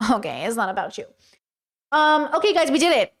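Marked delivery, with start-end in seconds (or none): 0.1-1.0 softer, under the breath; quieter repeat. Real, not acted. Streamer repeating to chat, much softer aside. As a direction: let it fall away, muttered.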